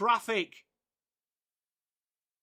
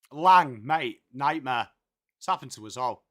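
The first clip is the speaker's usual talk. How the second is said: commiserate like a broad Aussie bloke; ocker Aussie accent; 7 semitones lower than usual. Pretend. Streamer consoles a chat user in broad Aussie accent. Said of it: "stuck with this accent forever".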